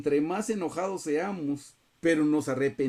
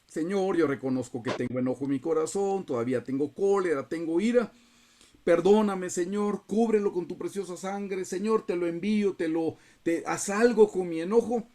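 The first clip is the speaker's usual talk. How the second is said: earnest confession, rising into a higher plea; pleading prayer; 4 semitones higher than usual. Acted. Believer confessing anger to the Lord, pleading. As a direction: build from admission to urgent appeal.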